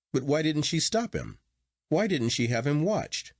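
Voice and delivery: demanding answers, voice lifted high; cried out in alarm. A narrator's reading. Narrator demands of the doctor why she didn't stop him, voice pitched high. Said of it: "I cried".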